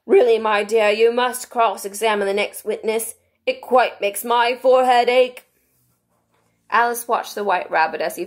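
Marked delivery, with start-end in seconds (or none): 0.0-5.5 undertone. A narrator's reading. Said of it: "in an undertone to the Queen".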